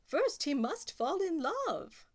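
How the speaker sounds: a royal pronouncement; king. Acted. King deciding for the prince, slow and pleased.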